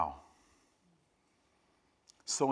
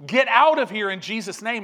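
retold rebuke, much higher and louder; commanding rebuke; 8 semitones higher, 8 dB louder than usual. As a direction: order the demon out with a shout. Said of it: "And he goes".

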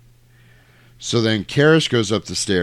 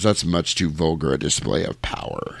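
lower, lightly voiced devil; a hint of a demon, pitched down; understated demon; 5 semitones lower, 3 dB quieter than usual. Possessed girl refusing the priest, lightly voiced demon.

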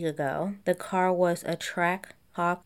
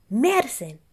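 imitating Danny; 5 semitones higher, 6 dB louder than usual. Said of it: "Danny Pellegrino saying it".

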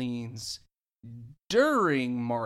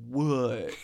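surprised what; 2 semitones lower than usual. Retold or imitated. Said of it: "I'm like".

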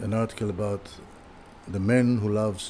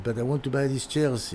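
put-on French accent; 4 semitones higher than usual. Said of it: "in a French accent".

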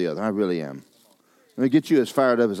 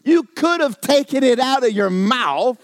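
high, laughing self-mockery; laughing at himself; 7 dB louder, slower than usual. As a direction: chuckle through the obvious. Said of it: "I went".

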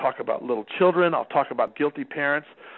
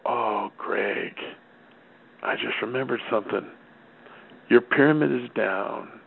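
mock innocent; 6 semitones lower, slower than usual. Dad springs trap on son.

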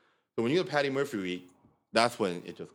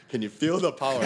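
screaming; 3 semitones higher, 3 dB louder than usual. Retold or imitated. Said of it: "everyone just starts screaming".

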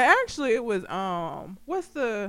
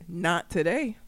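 low, softer retold deadpan reply; 4 semitones lower, 5 dB quieter, slower than usual. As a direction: deliver it straight-faced, no emotion. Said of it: "said it with such a straight ass face".

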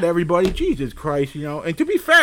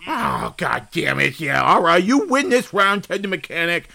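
defeated concession; 5 semitones lower than usual. Acted. Host conceding the round to his guest, deflated. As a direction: give in, deflated.

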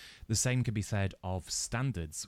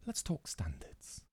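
hypnotist voice; 3 semitones lower, 7 dB quieter, slower than usual. Pretend. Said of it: "hypnotism voice".

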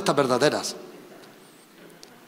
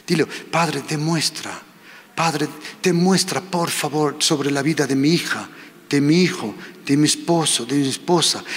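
leading prayer. Acted. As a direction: pray aloud so they echo each word. Leads congregation in prayer.

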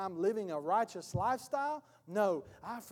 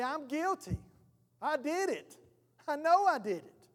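higher-pitched admission of guilt; pleading, higher confession; acted confession; 4 semitones higher than usual. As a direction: blurt it out in a raised pitch. Acting the urge to confess.

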